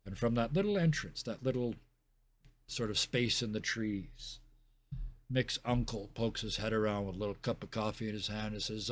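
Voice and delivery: low, soft scene-setting; game master narration. Acted. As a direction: set the scene quietly and unhurriedly.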